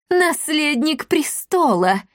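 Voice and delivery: high, slow spiteful gloat; malicious gloat. A narrator's reading. Leonella mocks the hidden heir, spiteful gloat. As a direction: relish the discovery with malice. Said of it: "злобно расхохоталась Леонелла".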